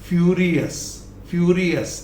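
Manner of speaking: फ्यूरियस as fyoo-ree-us; correct pronunciation. Shown as a demonstration. Teacher models the next word, correct pronunciation. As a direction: end फ्यूरियस in a light us. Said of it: "अस".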